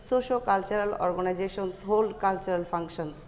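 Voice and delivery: slow, deliberate read-aloud for students; slow dictation reading. Acted. Teacher dictating the English passage slowly to students. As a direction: read each phrase slowly so the class can follow.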